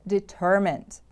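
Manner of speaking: "Determined" with the stress on TER; stress on second syllable. Shown as a demonstration. Teacher models the word for repeating, stress on TER in "Determined". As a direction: lean on the middle syllable of "Determined", then fall. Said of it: "The stress is on the second syllable".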